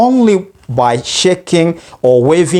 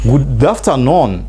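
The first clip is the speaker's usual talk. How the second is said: slow model; slower than usual. Shown as a demonstration. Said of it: "Or you say".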